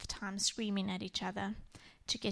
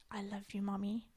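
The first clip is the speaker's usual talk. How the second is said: much softer, a hint of a child's voice; little girl whisper; 8 dB quieter than usual. Daughter smiling up at mommy after calming, soft whisper. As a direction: let it fall to a tiny hushed whisper. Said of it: "and she said".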